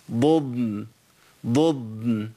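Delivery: ضضن slow, moving ض then a long still ض; two distinct Dads. Shown as a demonstration. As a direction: hold the second ض of ضضن before the nun. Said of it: "أبين الفرق بينهم".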